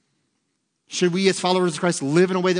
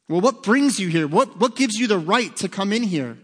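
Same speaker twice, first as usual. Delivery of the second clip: louder, higher demanding official; exasperated supervisor; 4 semitones higher, 4 dB louder than usual. Retold or imitated. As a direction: press the thief for an answer. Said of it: "And he says".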